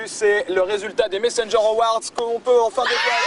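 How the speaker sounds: lancé fort, plein d'entrain; annonce enthousiaste. Real, not acted. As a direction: annoncez le résultat avec fierté. Grande annonce des Messenger Awards. (annonce enthousiaste)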